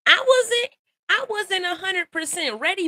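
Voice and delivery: lifted emphatic I wasn't; emphatic admission. Real, not acted. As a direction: stress the confession with rising energy. Emphatic confession.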